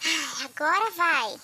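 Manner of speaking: muffled, mic held too near; too close to mic. Real, not acted. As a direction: mouth right on the microphone. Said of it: "se eu não botar o microfone na boca".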